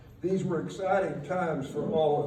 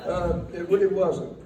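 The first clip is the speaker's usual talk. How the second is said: laughing; 2 semitones higher, 5 dB louder than usual. Real, not acted. Laughing after long laugh.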